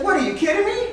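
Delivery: very high-pitched, disbelieving frog; high comic voice of alarmed refusal; incredulous frog. Acted. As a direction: protest shrilly as a frog who isn't fooled. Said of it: "Frog says".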